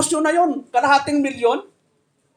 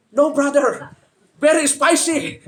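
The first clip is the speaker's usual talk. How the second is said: laughing reply; 3 semitones higher, slower than usual. Retold or imitated. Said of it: "sabi ni brother".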